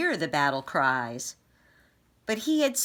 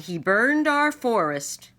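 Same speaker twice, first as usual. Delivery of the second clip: indignant cry; 6 semitones higher, 5 dB louder than usual. Acted. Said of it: "he cried".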